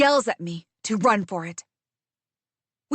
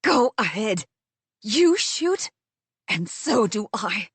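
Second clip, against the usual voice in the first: spat through tremors. Acted. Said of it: "spit the words out through tremors".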